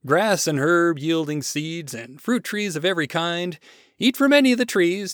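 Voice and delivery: lightly voiced God showing off his creation; proud, enthusiastic God. God presents the garden.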